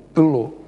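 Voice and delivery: pelou with the first vowel reduced, p'lo; unaccented preposition pelo. Shown as a demonstration. Explaining the contraction, pelou as p'lo. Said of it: "Contração da preposição por".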